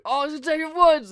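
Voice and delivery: high, loud gushing fan squeal; starstruck squeal. Retold or imitated. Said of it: "you're like".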